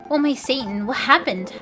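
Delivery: high, loud startled scream; mock startled scream; sudden scream. A narrator's reading. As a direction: scream out in shock. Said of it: "I screamed suddenly".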